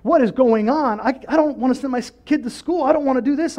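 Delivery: high, anxious plea to God; acted worry, high and unsettled; mock fearful. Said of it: "start to live in fear".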